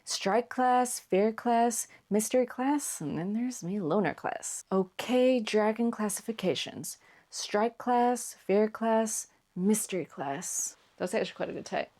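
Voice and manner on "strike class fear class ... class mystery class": lightly voiced American character read; a hint of American musical-theatre dialogue; Hiccup. Shown as a demonstration. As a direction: list them in a light character voice. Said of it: "since I've done Hiccup's bit".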